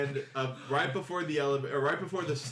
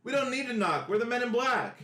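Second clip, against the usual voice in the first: mock tough agent; 9 semitones higher than usual. Gnome guards barging in.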